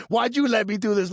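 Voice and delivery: retold desperate complaint; desperate blame. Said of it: "like, desperate".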